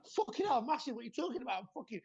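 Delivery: high, fast, outraged protest; a hammed-up bodybuilder taking offence; indignant mock outburst. Mocking his own indignant reaction.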